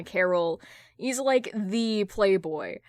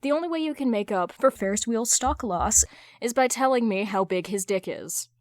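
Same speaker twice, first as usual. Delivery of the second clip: ordinary delivery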